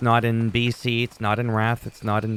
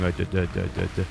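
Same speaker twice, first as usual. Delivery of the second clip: a lightly imitated stuck stutter, low; mocking someone stuck on duh; 3 semitones lower, 4 dB quieter, much faster than usual. Mocking stuttering players, repeated duh sounds. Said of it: "people that talk like that".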